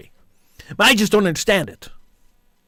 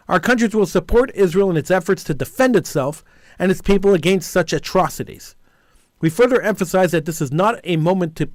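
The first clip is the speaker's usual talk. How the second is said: steady official reading of a joint declaration; formal statement read. Acted. Radio host reading the leaders' joint statement on air, formal.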